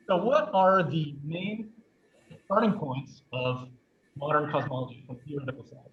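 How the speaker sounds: short of air, pushing the words out; catching breath. Real, not acted. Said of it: "I have to catch my breath with this mask".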